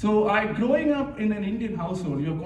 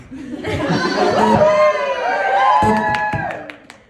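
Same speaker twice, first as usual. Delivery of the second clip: very high, loud laughing shriek; 11 dB louder than usual. Real, not acted. Comic shrieking with laughter at the party, very loud. Crowd-facing burst of laughter.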